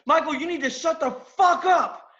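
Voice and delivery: imitating a boss's angry telling-off, pitched high; boss cursing. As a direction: act out the boss losing patience. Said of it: "cursed in Michael's direction".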